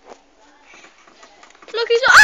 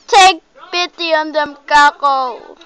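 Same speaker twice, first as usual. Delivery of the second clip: loud, higher-pitched scolding of a pet; playfully dramatic raised-voice appeal; loud mock plea; 3 semitones higher, 9 dB louder than usual. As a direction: plead loudly for the kittens. Scolds cat over crying kittens.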